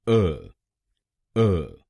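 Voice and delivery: अ as a short neutral uh; third syllable. Shown as a demonstration. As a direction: model a quick unstressed अ. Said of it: "हम बोलेंगे".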